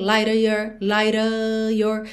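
"light of your" slow, "of" as a, no V; V dropped. Shown as a demonstration. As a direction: drop the V in "of". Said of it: "economizar o tempo de ir no V". ("of" sem V, devagar)

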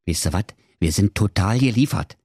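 lightly sighing, worn-out husband; mild sighing. Acted. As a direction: confide it with a touch of weary resignation. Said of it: "seufzte der arme alte Apfeletikettierer".

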